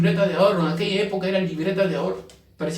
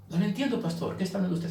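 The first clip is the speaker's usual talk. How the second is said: imagined listener; 8 dB quieter, faster than usual. Pretend. Imagined listener questions pastor.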